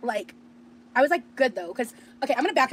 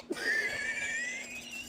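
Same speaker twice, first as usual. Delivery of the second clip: retold shriek; 10 dB quieter than usual. Her reaction to being recognized.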